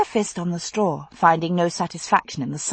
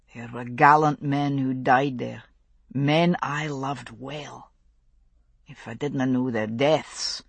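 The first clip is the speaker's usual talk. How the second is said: grieving Scottish father; 4 semitones lower than usual. Acted.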